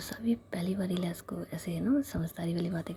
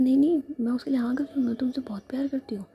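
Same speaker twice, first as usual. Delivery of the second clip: eager protest; 6 semitones higher, 8 dB louder, faster than usual. Acted. Savi protesting she loves her.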